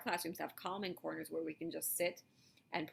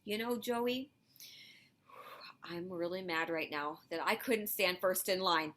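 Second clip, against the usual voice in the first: calm telling. Shown as a demonstration. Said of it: "Calmly tell the person".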